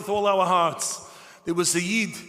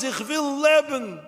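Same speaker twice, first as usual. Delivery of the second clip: slow, loud, high cry; screaming at the top of lungs; 7 semitones higher, 4 dB louder, slower than usual. Retold or imitated. Survivor screaming in the camp that he wants to live. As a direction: bellow it out, drawn out. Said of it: "screaming at the top of my lungs".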